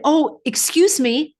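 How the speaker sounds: a touch of Southern politeness, asking gently; imitating polite stranger. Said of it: "he had a little Southern accent".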